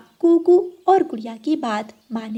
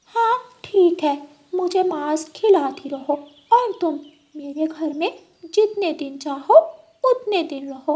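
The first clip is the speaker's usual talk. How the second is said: high, greedy fox voice; a cunning fox striking a deal; high scheming fox; sly fox; 6 semitones higher than usual. Acted. Fox replies to cat.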